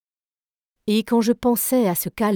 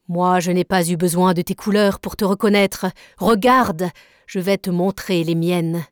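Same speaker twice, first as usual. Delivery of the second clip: defiant; 3 dB louder than usual. Acted. Nemo defies the warship.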